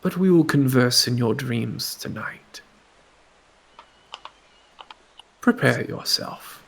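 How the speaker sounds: breathy menacing whisper; faint whisper. Acted. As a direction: whisper into their mind. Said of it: "a faint whisper".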